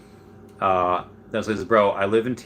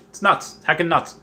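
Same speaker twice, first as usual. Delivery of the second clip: higher, emphatic "nuts"; excited; 6 semitones higher than usual. Real, not acted. Telling viewers about the set glut, excited. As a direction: stretch "nuts" up in disbelief.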